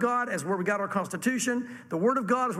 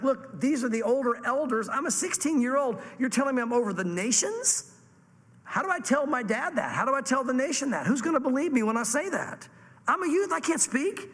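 lightly voiced overwhelmed youth, pitched higher; higher-pitched, mildly incredulous objection; protesting young prophet; 4 semitones higher than usual. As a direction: plead your inexperience in a higher voice. Acts young Jeremiah protesting his calling.

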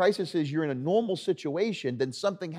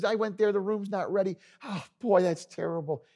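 lightly acted complaint, pitched up; discouraging barber; 6 semitones higher than usual. Barber recalling his own hotel visit, mock-dismayed and discouraging. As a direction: grumble in a higher voice to put him off. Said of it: "known around town as the discouraging barber".

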